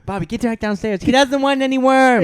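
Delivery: mock mother shouting downstairs; scolding mom. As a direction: play the mother calling Bobby back.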